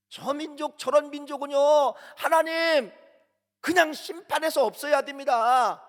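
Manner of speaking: high-pitched, indignant protest to God; heated, high acted objection; angry complaint. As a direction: act out an outraged complaint, voice pushed up high. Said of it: "하나님 앞에 불평을 막 내포하는 거예요".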